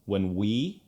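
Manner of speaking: "we" emphasized after a light "When"; stress on WE. Shown as a demonstration. Coach isolates the second syllable, stress on "we". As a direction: lean on the second word, "we". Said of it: "emphasis is now on the second syllable".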